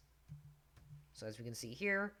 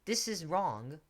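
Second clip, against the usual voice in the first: mock webpage voice; 3 semitones higher, 4 dB louder, slower than usual. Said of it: "underline it to show".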